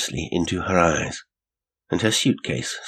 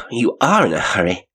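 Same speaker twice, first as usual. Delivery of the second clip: breathless cry, a little higher and louder; 4 semitones higher, 5 dB louder than usual. A narrator's reading. Janet catching the man up in the lane, crying breathlessly. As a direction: cry it out after catching someone up.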